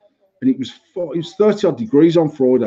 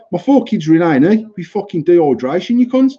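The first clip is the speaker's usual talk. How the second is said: mildly heated, higher-pitched rant; retold angry outburst; 3 semitones higher, 3 dB louder than usual. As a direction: re-enact kicking off at the staff. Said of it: "I was kicking off in there bad".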